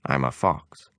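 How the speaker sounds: low calm fox voice. Acted. The fox introduces himself, low and calm.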